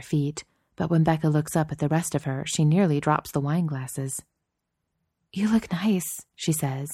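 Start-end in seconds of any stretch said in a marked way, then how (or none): 5.3-6.3 barely above a whisper; near whisper. Acted. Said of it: "in a voice just a few notches above a whisper".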